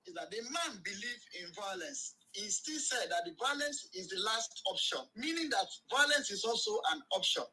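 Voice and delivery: caller heard over a phone line; distant, thin phone speaker voice. Real, not acted. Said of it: "you're on speaker now".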